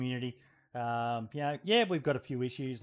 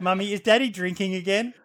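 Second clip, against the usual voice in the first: put-on child's question, broken by laughter; giggling through a kid impression; laughing kid voice; 6 semitones higher, 8 dB louder than usual.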